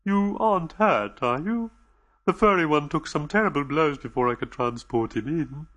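anxious, gentle alien voice; lightly voiced anxious alien reassuring the visitors; nervous alien host. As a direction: soothe the frightened guests, a little on edge. Dodo speaks.

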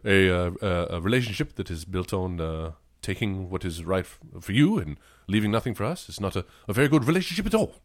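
halting, lightly put-on British accent; hesitant British statesman making a stand; Hugh Grant. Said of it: "do your Hugh Grant".

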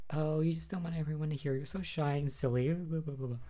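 mock teasing dismissal, tailing into filler; playing it off. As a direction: imitate someone making light of it. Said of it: "tries to play it off".

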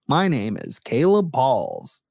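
slow, teasing American-accent imitation; vanilla American accent. Co-host teasing the host's vanilla sound, American accent. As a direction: mimic a co-host's plain American intro. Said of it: "just the American accent".

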